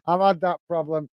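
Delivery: says it through a real chuckle; laughing softly at his own bad luck. Real, not acted. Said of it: "I'm laughing".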